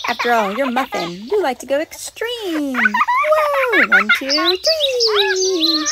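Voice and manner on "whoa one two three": loud, high whoa then a slow count; a big whoa, then one, two, three drawn out; thrilled swing count. Pretend. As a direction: count out each push slowly and loudly. Pushing swing faster.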